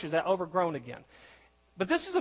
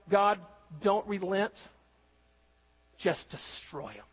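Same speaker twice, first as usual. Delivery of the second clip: mock vengeful prayer. Jonah's imagined vengeful prayer.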